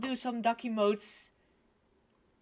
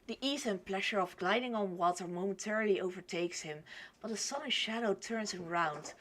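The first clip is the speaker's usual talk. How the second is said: story narration. A narrator's reading. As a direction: read it evenly as a storyteller.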